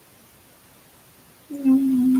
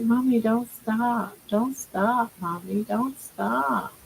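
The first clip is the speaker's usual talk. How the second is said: softly voiced pleading pet; lightly imitated pet begging, trailing softer; voicing the pet; 4 dB quieter, slower than usual. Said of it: "You're like".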